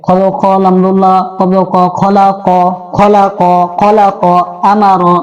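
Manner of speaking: slow, drawn-out syllables; teacher modelling a slow sing-song drill; spelling drill recitation. Shown as a demonstration. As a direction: recite the Arabic spelling in an even chant.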